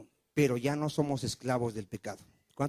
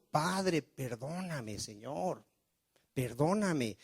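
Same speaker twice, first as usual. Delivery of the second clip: softer, falling, asking forgiveness; a hushed plea, voice dropping on each word; pleading prayer; 6 dB quieter, much slower than usual. Acted. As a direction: murmur it like a contrite confession to God. Pastor voices repentant prayer.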